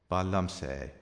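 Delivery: Ba liomsa é with liomsa stressed as "LUM-sa"; emphatic liomsa. Shown as a demonstration. Irish teacher demonstrates the emphatic liomsa form. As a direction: give liomsa its full emphatic weight. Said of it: "the emphatic liomsa instead of lum".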